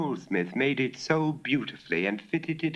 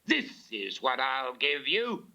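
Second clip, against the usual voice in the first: bawling; 5 semitones higher than usual. Acted. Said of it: "when she heard Bob bawl".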